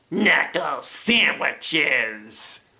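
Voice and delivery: slow, menacing character voice; Yao. Acted. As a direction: draw the threat out slowly. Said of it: "doing the voices and the lines".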